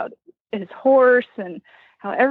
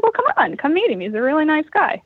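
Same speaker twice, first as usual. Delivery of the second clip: high neighbor voice; 6 semitones higher than usual. Retold or imitated.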